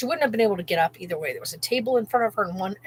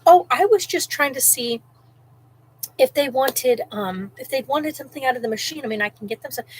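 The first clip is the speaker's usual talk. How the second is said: mock innocent lady; 4 semitones higher, 4 dB louder than usual. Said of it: "And she goes".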